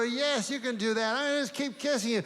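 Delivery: high and fast, breathless doggy gushing; excited dog voice. Retold or imitated. Dog chatters on to his owner, high and fast. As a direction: rattle it off like a thrilled puppy. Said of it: "I go".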